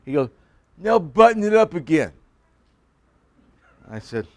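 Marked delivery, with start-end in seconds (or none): 0.8-2.1 higher, louder insistent command, imitated; mimicking classmate. Classmate orders the pastor to unbutton his shirt. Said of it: "I'm gonna mimic him".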